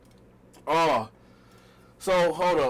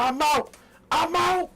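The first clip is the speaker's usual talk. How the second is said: mock heartbroken outrage; 8 semitones higher, slower than usual. To his girlfriend, a hammed-up heartbroken tirade. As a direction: ham up the hurt boyfriend. Storming out.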